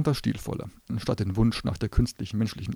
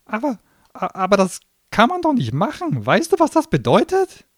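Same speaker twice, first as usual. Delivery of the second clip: stammering; 13 semitones higher, 10 dB louder than usual. Acted. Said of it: "bekam immer größere Augen und stotterte".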